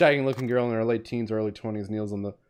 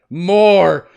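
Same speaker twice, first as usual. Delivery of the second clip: loud, high acted bellow; indignant shout; 5 semitones higher, 11 dB louder than usual. Cop losing his mind, indignant shout. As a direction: shout it out in mock outrage. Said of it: "Maybe add more indignation".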